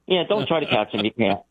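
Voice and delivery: a hint of a laid-back lawman; casual sheriff. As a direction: toss it off like a sleepy small-town sheriff. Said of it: "He goes".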